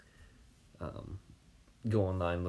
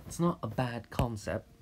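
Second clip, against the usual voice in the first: a light mock British accent, a bit louder; 4 semitones higher, 5 dB louder than usual. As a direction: tries out an amateur British accent. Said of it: "how is my British accent?".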